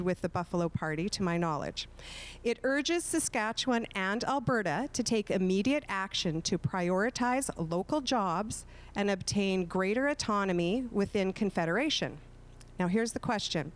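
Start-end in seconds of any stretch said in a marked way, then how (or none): 2.4-12.2 measured read-aloud, phrase by phrase; slow, careful reading. Real, not acted. Moderator reads candidates a long question, slowly and carefully. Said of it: "read it very slowly".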